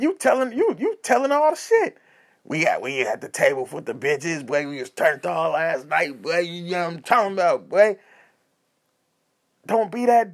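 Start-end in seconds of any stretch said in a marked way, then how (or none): 2.4-8.0 slightly lowered bragging bro voice; mock party-boy boasting; turnt party dude. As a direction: imitate an oversharing homeboy. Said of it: "you get the extra turn dude".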